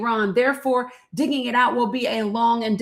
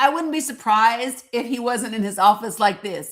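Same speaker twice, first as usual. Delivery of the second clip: ordinary talk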